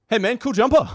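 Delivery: high, loud compliment to a stranger; put-on friendly greeting. Casually greeting the man wearing his jumper.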